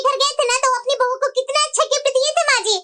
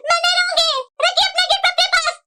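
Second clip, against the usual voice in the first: raised, higher-pitched indignant protest; wife hurt by a knife as a gift, voice rising; upset; 5 semitones higher than usual. Acted. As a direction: storm off in a huff.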